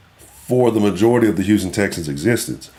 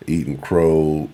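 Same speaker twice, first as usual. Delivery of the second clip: usual speaking voice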